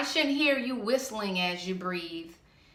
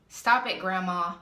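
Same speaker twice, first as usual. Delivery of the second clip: scolding; 4 dB louder than usual. Acted. Scolding throat scratcher.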